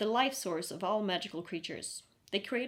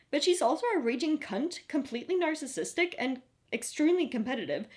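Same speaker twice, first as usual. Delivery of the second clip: loud, higher, worked-up rant; exasperated rant; 6 semitones higher, 5 dB louder than usual. Acted. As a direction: rattle off the complaints, fed up. Sam ranting about rival.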